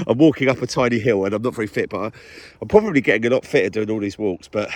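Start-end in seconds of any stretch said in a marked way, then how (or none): 0.1-3.7 breathless on the climb; out of breath. Real, not acted. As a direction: still out of breath. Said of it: "if I sound like I'm out of breath".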